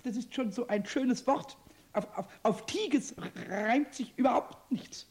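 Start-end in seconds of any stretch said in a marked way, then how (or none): 1.9-5.1 slow words laced with giggles; giggling. Acted. Kobold giggling over a word game with Meister Eder. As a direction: chuckle through the rhyme hunt. Pumuckl delighted by rhyming game.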